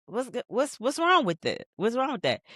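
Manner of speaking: high-pitched retold questioning; acted challenge. Rapper questioning the call for another take, mock challenge. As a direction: push back with a high, questioning lilt.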